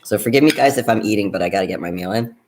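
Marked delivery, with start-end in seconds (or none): 1.3-2.4 talking with a mouthful of food; mouth full. Real, not acted. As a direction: speak while chewing a bite. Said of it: "I'm talking with my mouth full".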